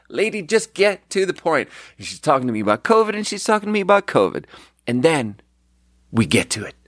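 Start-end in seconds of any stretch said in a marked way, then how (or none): 0.1-1.7 higher, impatient mock outburst; exasperated. Exasperated inner rant at customer. 3.2-4.4 much higher, fast, disbelieving "covid"; exasperated repeat. Shown as a demonstration. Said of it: "repeats it louder and higher".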